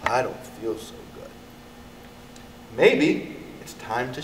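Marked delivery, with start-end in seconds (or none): 0.1-1.3 queasy. A narrator's reading. Harriet sick from candy.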